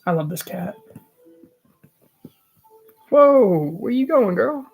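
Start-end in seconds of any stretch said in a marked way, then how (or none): 3.1-4.6 high, loud surprise at a pet; exclaimed, pitched-up protest; startled calling out. Real, not acted. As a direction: call after a cat that's wandering off. Calls to the cat leaving.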